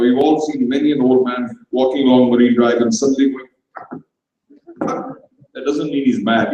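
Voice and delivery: ordinary delivery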